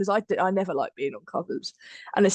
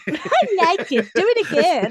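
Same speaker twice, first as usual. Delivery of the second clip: put-on excited childlike; 8 semitones higher, 6 dB louder than usual. Imitating himself, childlike.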